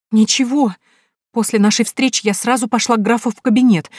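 put-on a scared girl clinging to her lover; frightened young woman.

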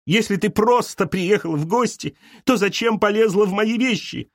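Galya, high and outraged; a wife catching a rival in her things; indignant accusing. Acted. (Галя возмущённо обвиняет)

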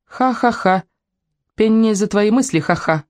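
put-on high girlish gloating; triumphant. A narrator's reading. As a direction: crow over your win with a spoken ha-ha-ha. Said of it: "девочка торжествующе улыбнулась".

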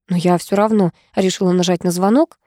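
ordinary delivery

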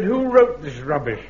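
repeating it with pointed indignation; indignant repeat. Real, not acted. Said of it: "Yes, I said".

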